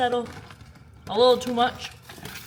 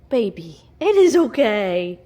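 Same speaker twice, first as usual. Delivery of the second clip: reassuring; 9 dB louder than usual. Real, not acted. Reassuring her frightened pet loudly.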